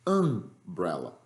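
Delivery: umbrella said slowly with a closed A sound; umbrella, English. Shown as a demonstration. Teacher demos umbrella to the class, slow and careful. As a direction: stretch out umbrella, first vowel like a closed Portuguese A. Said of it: "Como é que eu falo aí".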